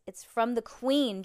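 loud, slow, mildly squealed reveal; storybook squeal without much rise in pitch; excited squeal. A narrator's reading. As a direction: draw out the big news with excitement. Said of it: "Jessica squealed".

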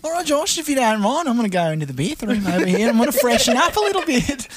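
playing Bendy. Bendy excuses herself.

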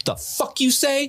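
high, slow, drawn-out disbelief; hammed-up squawk of bafflement; incredulous henchman. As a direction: imitate someone who cannot believe the order. Acting out Carl's baffled reaction.

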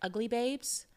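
lightly put-on pretty girl voice; a hint of pretty-girl persona. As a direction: play the pretty girl a little. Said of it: "putting on your pretty girl voice".

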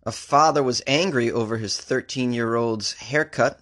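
normal talking voice

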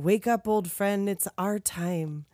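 slow, measured movie-line delivery; solemn awakening. Acted. Monsters waking Frankie in his casket, slow and solemn. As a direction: rouse an old friend slowly and gravely. Acts monster being roused by friends.

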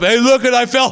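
high, dazed voice of the woman who fell; mock dazed rider, pitched high; dazed fallen rider. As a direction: play her as stunned and clueless.

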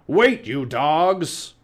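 slow, loud, high bellow; captain bellowing. A narrator's reading. Pirate captain wading after his crew, bellowing slowly. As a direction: roar it out word by word.

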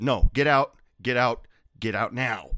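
loud order to leave; retold shout. Bartender ordering a customer out, loud. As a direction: throw him out loudly.

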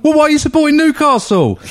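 laughing disbelief. Retold or imitated. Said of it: "And I'm like".

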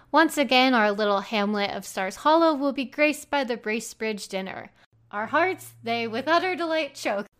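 lightly voiced town crier announcement; mock ad read. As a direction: read it like a medieval proclamation. Reads mock ad in crier style.

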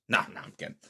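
breathy whispered take-back; whispered aside. Real, not acted. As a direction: drop to a whisper to undo the joke. Aside after joke plug.

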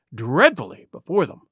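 ordinary delivery, nothing marked

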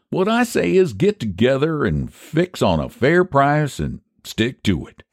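high-pitched, lilting country schemer; folksy pie seller Phineas. Acted. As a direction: argue your case like a folksy pie man.

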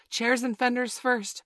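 high, loud, slow order; commanding. A narrator's reading. Peter directing the builders, commanding. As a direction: rap out the order deliberately. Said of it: "Peter ordered".

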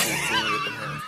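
high squealed laughing line; shrieking laugh through words. Pretend. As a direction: squeal it cracking up. Mimicking performer at wake.

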